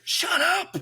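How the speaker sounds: high, crying shut up; high mock-crying protest; mock wail. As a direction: whine it out like a betrayed friend. Mock cry at the friend.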